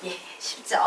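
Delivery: ordinary talk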